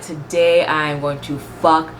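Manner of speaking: slow, deliberate mock announcement; imitated translator. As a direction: voice a scheming translator, word by word. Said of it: "That translator was like".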